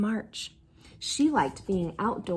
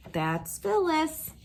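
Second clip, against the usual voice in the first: resigned; 4 semitones higher, slower than usual. A narrator's reading. Mother's resigned refrain.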